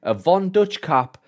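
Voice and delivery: drawn-out, high and pleased with himself; mock-proud listing. Mocking his own teen outfit.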